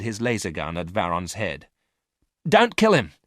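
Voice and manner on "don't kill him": much higher, louder urgent plea; cutting in to save the prisoner; sudden cry. A narrator's reading. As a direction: blurt it out to stop him. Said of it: "said Miranda suddenly".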